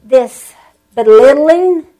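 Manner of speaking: slow, indignant inner voice; mild retold fury at the pastor's board; remembered anger. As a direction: drag out the hurt, restrained outrage. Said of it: "It made me so mad".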